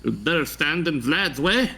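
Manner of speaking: lightly voiced German-ish vampire; a hint of a menacing Count. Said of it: "He's just, like, weirdly German".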